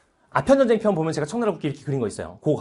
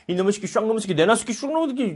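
mock Russian cursing; 4 semitones higher than usual. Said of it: "러시아가 얘기하죠".

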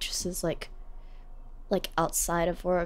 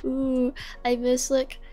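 a slow, hammed-up wistful sigh of a line; mock sentimental; 4 semitones higher, slower than usual. Teasing herself for missing the cafe, mock sentimental and slow. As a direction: lightly overdo the nostalgia. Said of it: "maybe I'm getting over sentimental".

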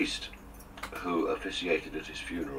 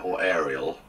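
a touch of Somerset dialect; local Somerset accent; 4 dB louder than usual. Retold or imitated. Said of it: "as they say down here".

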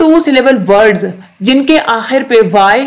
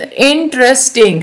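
"इंटरेस्टिंग" in three slow beats; split into syllables; slower than usual. Shown as a demonstration. Teacher counting three for students, "इंटरेस्टिंग" syllable by syllable. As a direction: count out "इंटरेस्टिंग" as इन, ट्रेस, टिंग. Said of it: "ये तीन".

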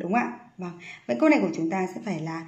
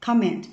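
teacher's model of "comment", weight on the opening syllable; first-syllable stress. Shown as a demonstration. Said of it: "đều đọc cho cô Hoa âm tiết số một".

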